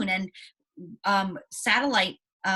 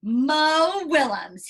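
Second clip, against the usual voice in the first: drawn-out big reveal; 4 semitones higher, 4 dB louder, much slower than usual. Real, not acted. Teacher unveils today's featured author.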